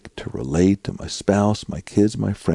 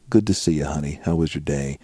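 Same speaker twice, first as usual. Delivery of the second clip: tender greeting; 4 semitones lower, 4 dB quieter than usual. Pretend. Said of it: "As opposed to".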